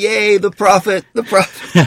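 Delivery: high, loud mock cheering; imitated student cheer. Students cheering on their classmate against the professor, mock cheering. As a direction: chant it like a rowdy crowd of students. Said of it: "the students would be like".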